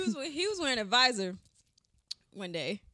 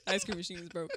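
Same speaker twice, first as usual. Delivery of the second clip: drive thru speaker; 4 semitones lower than usual. Pretend. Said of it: "And your line is".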